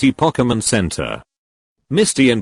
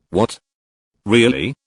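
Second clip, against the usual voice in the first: amazed. A narrator's reading. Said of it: "Ash asked in amazement".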